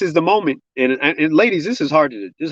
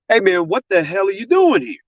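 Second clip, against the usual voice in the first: retold confrontation; 8 semitones higher than usual. Enraged man at the driver's window, retold angry challenge. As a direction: imitate an angry man demanding an answer.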